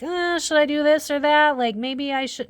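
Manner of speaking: high-pitched hemming and hawing; mock dithering. Voicing someone weighing their morals, mock hesitant.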